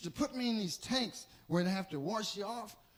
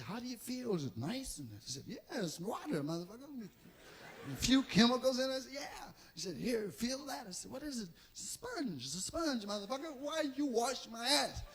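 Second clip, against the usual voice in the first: much softer, hushed exchange; soft bath dialogue; 6 dB quieter than usual. Retold or imitated. Bath dialogue with Larry Murphy.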